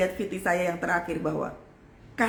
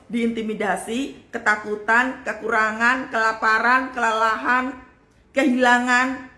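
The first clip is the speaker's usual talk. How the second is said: building list; 2 semitones higher, 5 dB louder, slower than usual. Acted. List of war attacks building.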